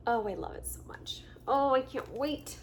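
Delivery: mother-to-be whispering her excitement; excited whisper. Real, not acted. Whispering love for baby clothes.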